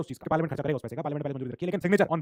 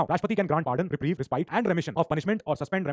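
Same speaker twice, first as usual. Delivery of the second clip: slow dictation; much slower than usual. Shown as a demonstration. Teacher dictating legal terms to his class, very slow. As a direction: read each term out very slowly. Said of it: "ये law के शब्द हैं".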